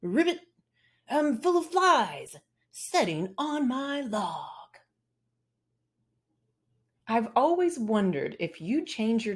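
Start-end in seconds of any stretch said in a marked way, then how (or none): 0.0-4.8 high croaky frog. Acted. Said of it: "How would you talk if you spoke like a frog".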